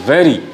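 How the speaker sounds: "वेरी" with a clearly sounded व. Shown as a demonstration. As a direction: let the opening व of "वेरी" sound out fully. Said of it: "व बड़ा इसमें loud sound करेगा". ("वेरी" में व साफ़ और ज़ोरदार)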